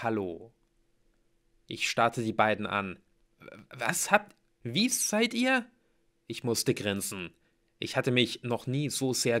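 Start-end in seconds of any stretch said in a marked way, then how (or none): 3.7-5.7 surprised. Acted. Narrator startled by arrivals.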